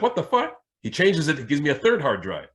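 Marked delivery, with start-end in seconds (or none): 0.0-0.6 retold baffled exclaim. Baffled IT guy.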